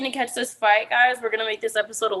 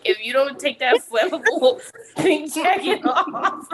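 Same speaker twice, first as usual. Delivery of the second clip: laughing mock threat. Acting out a scolding while laughing.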